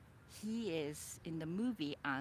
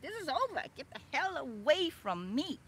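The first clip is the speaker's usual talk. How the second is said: much higher, louder shouted break-up; yelling at him to get away; sharp, loud yell; retold yell; 8 semitones higher, 5 dB louder than usual. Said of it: "I yelled".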